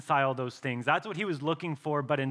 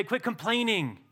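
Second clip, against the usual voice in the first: harsh dismissal; 7 semitones higher than usual. Pretend. Preacher voicing an uncaring God, a stern rebuke. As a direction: bark it like a cold taskmaster. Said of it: "He doesn't look at us and say".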